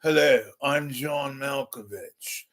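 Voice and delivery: lightly put-on mannered introduction; a hint of an impression; John Malkovich. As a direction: slip briefly into the actor's voice.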